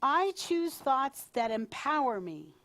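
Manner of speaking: "I" pushed out first, in a declaration; stress on "I". Shown as a demonstration. Leader giving an affirmation to repeat, stress on "I". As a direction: lean on the opening "I". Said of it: "emphasis on different words".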